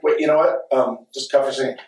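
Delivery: lightly voiced sweet costar. Actor politely halting a scene mid-shoot, lightly imitated sweetness. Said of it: "Milo's so sweet, and he's like".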